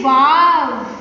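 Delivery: loud, drawn-out wow; belted-out example of delight; happy exclamation. Shown as a demonstration. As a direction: demonstrate sudden happiness with a loud exclamation. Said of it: "such as happiness".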